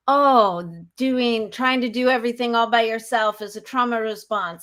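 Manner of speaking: mocking quote. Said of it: "people say".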